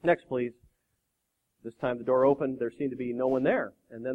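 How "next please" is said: low, resigned murmur; weary sigh. Acted. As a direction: say it as if worn down. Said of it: "The president sighed".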